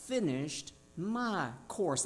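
slow "finished My course" with "My" lifted and held; stress on my. Shown as a demonstration. Preacher quoting Paul to the congregation, stressing "My". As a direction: lean on "My" in "finished My course", rising. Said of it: "I love the emphasis on the word my course".

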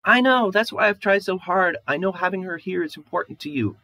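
high, loud, despairing plea close to a sob; wife at the end of her strength, breaking toward a sob; near tears. Acted. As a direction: beg him to understand, voice about to break. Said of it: "Shamali's voice disappears into a sob".

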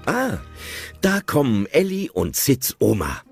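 usual speaking voice

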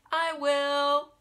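high, loud eager duck voice; eager quacking duck. A narrator's reading. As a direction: quack it out, keen to eat. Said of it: "quacked the duck".

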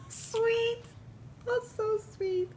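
very high, squeaky coo; melting at the cuteness; overcome with delight. Real, not acted. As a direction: gush in a tiny high voice. Overcome by the toy kitten.

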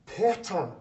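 put-on a whisperer recognising a famous boy; surprised exclamation. Hall whispering his name.

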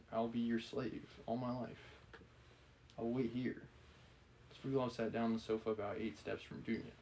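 measured novel reading; story narration. A narrator's reading. Reader voicing a tense novel dialogue, measured narration. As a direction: read the story aloud evenly. Reads novel aloud, chats between.

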